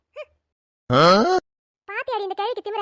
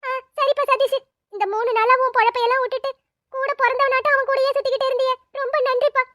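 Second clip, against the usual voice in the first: grateful thanks; 5 semitones higher, 7 dB louder than usual. Acted. Mother thanking son's friend.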